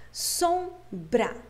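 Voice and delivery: "Sombra" in two separate beats, pausing between them; "Sombra" divided clearly into two parts; split into syllables. Shown as a demonstration. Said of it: "consegui dividir ela em duas partes".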